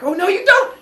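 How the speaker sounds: high, loud shout of pursuit; mock battle cry. Cronus shouts after his fleeing father, hammed-up. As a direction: yell it as you give chase.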